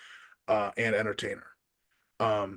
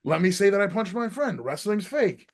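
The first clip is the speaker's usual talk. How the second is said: retold tirade; 5 semitones higher than usual. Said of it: "And then I was like".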